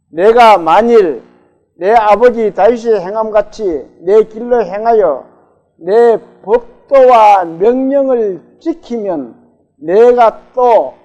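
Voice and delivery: slow, loud reading together with the congregation; reading scripture aloud. Real, not acted. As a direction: lead the verse aloud, slow and strong. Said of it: "같이 한번 읽어볼까요".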